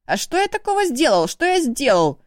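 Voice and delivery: a shrieking brother protesting his innocence; squealing protest. A narrator's reading. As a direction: squeal it out indignantly. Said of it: "заверещал Ишу".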